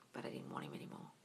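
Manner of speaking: barely-there whisper, letting it slip; whispered aside. Real, not acted. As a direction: drop to a secret whisper. Confessing aside after story.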